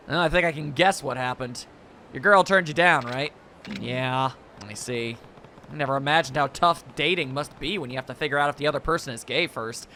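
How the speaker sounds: hint of a gruff stoic lead; stoic hero voice. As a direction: read it as the calm yakuza hero. Kiryu lines read in-game.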